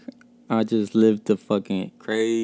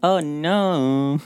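big high yelp of surprise; shocked listener; 6 semitones higher, much slower than usual. Pretend. Listeners hearing his Mexico stories, mock shocked. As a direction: gasp like a stunned listener. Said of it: "Y'all gonna be like".

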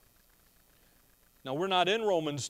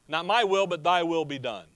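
a firm, raised surrender; a louder, resolute take on the prayer; firm declaration; 3 dB louder than usual. Retold or imitated. Jesus' prayer quoted, first time.

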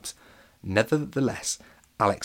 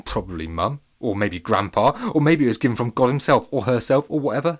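cheekily. Acted. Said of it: "said Alex cheekily".

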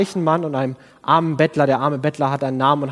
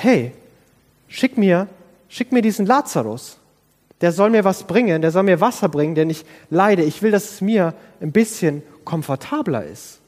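higher, bossy call to send Lazarus; entitled demand; 3 semitones higher than usual. Acted. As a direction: order him about like a spoiled rich man. Acting the rich man's demand.

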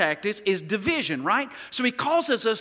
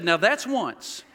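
a cold wife's threat, slowly; deadpan punchline; 2 semitones lower, much slower than usual. Retold or imitated. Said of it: "she turned to me and said".

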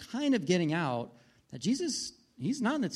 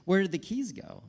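louder, higher, exasperated at his wife; mock-frantic demanding where the keys went; exasperated yell; 4 semitones higher, 5 dB louder than usual. Husband on the dark trail asking his wife where her keys went, exasperated. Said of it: "I'm like".

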